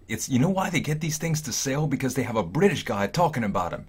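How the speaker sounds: a high, loud mocking impression of the guy; hammed-up quote with a laugh in it; quoting the Asian guy. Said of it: "he was like".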